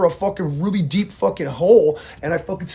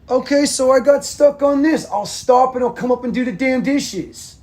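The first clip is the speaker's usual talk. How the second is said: annoyed; 8 semitones higher than usual. Real, not acted. Annoyed reply to wife offscreen.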